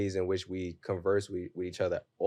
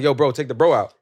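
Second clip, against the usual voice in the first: retold mild protest; 3 semitones higher, 9 dB louder than usual. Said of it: "And I was like".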